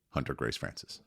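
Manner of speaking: mumbling her name to a stranger; quiet child mumble. Retold or imitated. Parent asks toddler her name, she answers in a quiet mumble. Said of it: "can you say it a little bit louder".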